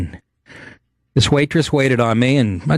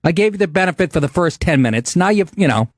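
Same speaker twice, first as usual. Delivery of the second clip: heated scolding; 6 semitones higher than usual. Retold or imitated. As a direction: lay into the waitress. Scolding waitress in retold quarrel.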